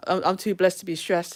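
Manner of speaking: mock blessed-and-happy act; fake church cheer. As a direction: imitate someone pretending all is wonderful. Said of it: "they smile and go".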